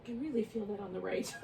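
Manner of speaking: laughing through the words. Real, not acted. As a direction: chuckle while you say it. Feels the stretch, laughs.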